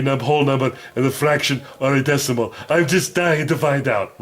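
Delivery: lightly voiced eager cartoon dog; a hint of a puzzled puppet pup; Math Mutt voice.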